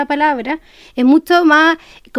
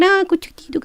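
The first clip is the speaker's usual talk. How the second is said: put-on baby talk; 4 semitones higher than usual. Shown as a demonstration. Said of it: "más cantadito, más suavecito".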